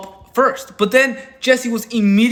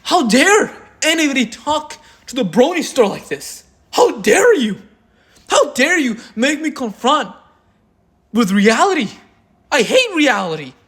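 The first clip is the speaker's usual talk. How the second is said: higher, whining mockery of a man offended by reality; mock whiny outrage; 4 semitones higher than usual. Mocking the offended man, high fake sobbing outrage. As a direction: sneer it as a pitiful, fake-hurt complainer. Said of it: "He's like".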